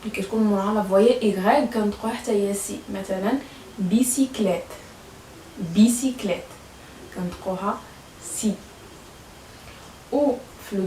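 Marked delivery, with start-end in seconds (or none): 3.8-4.6 بيسيكليت whispered, no voice at all. Shown as a demonstration. Teacher whispering the example word to the class. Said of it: "teacher models the word twice".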